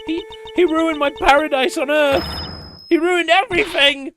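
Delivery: rising fury. Acted. Exposed warden ranting at the man she blames, rising from angry to furious. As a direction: climb into an unhinged rage. Culprit breakdown after being exposed.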